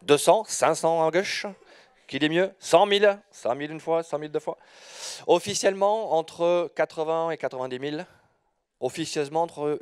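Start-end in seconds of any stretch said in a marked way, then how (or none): 0.2-4.6 auction call, going once, going twice; auctioneer. Pretend. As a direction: play the auctioneer. Mock auction bidding on numbers.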